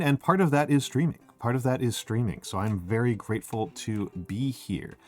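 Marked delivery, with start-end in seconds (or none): 1.4-2.4 a little softer ASMR take; soft ASMR retry. Shown as a demonstration. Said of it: "I can't get the smoke in my voice". 2.4-5.0 soft ASMR voice. Shown as a demonstration. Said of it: "I can't get the smoke in my voice".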